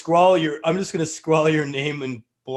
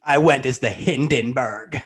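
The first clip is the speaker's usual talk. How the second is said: slow, campy sitcom quip voice; lightly done Paul Lynde; 3 dB louder than usual. Acted. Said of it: "I was trying to get my Paul Lynde voice down".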